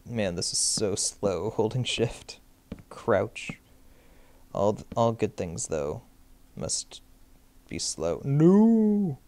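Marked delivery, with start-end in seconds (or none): 2.9-3.5 whispered crouch. Real, not acted. Sneaking player whispering the command. Whispered game action callout. 8.2-9.2 high sharp cry of no; frustrated no. Real, not acted. Gamer yelping at a mistake in the game.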